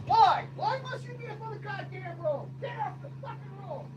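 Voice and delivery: high-pitched yelling from a distance; real exasperated yell. Real, not acted. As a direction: holler at stray goats off in the distance. Yelling from afar at escaped goats.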